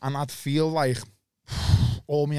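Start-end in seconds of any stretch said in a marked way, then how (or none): 1.5-2.0 short voiceless exhale of relief; sigh of relief. Retold or imitated. Drinker feeling the anxiety go, acted sigh of relief. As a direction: let the tension go in one breath.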